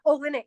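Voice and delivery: "Oh, in it" with the H left off; dropped H. Shown as a demonstration. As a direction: say "Oh, in it" Hull-style, no H sounded. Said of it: "we don't even pronounce the H".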